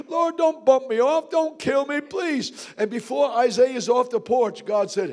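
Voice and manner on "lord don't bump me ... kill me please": mock pleading. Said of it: "starts crying and boo-hooing".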